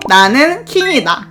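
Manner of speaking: ordinary delivery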